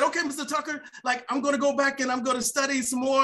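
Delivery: high, quick eager vow; eager promise. Retold or imitated. Young tuner to Mister Tucker, high eager promise. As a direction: rush to promise, fired up. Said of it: "And I said".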